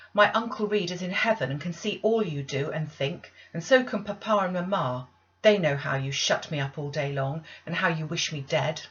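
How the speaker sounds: a hint of a child's reckless fury; defiant outburst. Child defies aunt in outburst.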